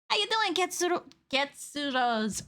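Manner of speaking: playful put-on Japanese accent; light imitation Japanese accent. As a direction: slip into a mock Japanese accent, slowing on the name. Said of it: "in a very Japanese accent".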